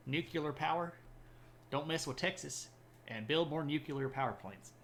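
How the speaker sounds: a lightly done Texan president voice, "nuclear" said as nucular; just a hint of an old Texan politician, nothing big; George H W Bush. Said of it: "not the world's best George H W Bush impression".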